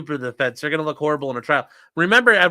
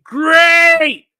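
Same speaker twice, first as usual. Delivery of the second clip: mock gush; 12 semitones higher, 11 dB louder than usual. Reading lawyer's gushing text.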